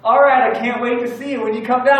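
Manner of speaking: high, loud Tennessee phone goodbye; friendly Southern lady. Retold or imitated. Cabin lady signing off to customer, imitated friendly Southern accent. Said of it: "this lady's really friendly".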